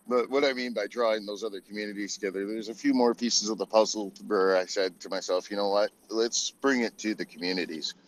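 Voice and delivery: glitchy robotic audio; choppy robotic connection. Real, not acted. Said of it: "You sound like a robot".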